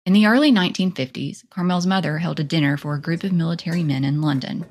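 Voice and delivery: measured documentary read with lifted phrase openings; podcast narrator reading from a script; scripted narration. A narrator's reading. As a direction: read the biography aloud, punching each new phrase.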